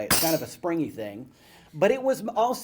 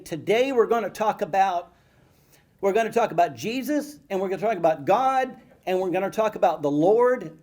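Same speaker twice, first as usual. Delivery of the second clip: mildly raised mock-sermon announcing; child playing preacher; 3 semitones higher, 4 dB louder than usual. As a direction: announce each holy name like a little preacher. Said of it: "I would preach like that".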